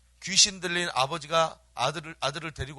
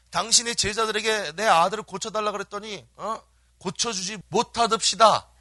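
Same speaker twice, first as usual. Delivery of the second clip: higher-pitched grievance, landing hard at the end; complaining father; 4 semitones higher, 4 dB louder than usual. Acted. Father complaining to Jesus about his disciples, acted grievance. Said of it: "그 아버지가 딱 나오더니".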